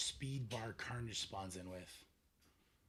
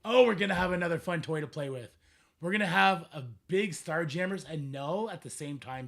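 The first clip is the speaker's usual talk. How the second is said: louder, eager and thrilled; excited; 3 semitones higher, 10 dB louder than usual. Real, not acted. Streamer hyping upcoming characters to viewers, excited. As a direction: sell the new toy with real glee. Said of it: "that's actually super exciting".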